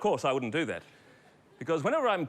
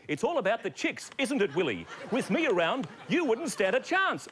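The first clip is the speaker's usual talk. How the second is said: dummy voice; 6 semitones higher than usual. Acted. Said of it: "This is Marty, everybody".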